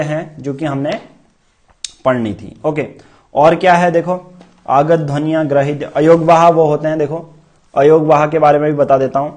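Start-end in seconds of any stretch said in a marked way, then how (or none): none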